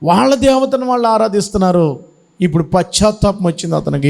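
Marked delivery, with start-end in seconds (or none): 0.0-2.2 higher, pleading lament in regret; remorseful lament. Acted. Samson in the temple laments to his God, high remorseful wail. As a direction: wail it like a man sorry for his sin. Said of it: "ఏడుస్తున్నాడు".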